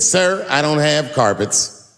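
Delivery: imitating her slow, unfazed reply; retold deadpan comeback. Daphne answering the heckler without looking back, retold deadpan comeback. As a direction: deliver the comeback slowly, imitating her cool. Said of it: "Just like that".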